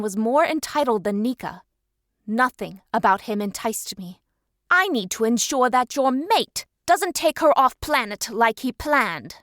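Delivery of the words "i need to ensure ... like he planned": hissed. Acted. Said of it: "Primus hissed".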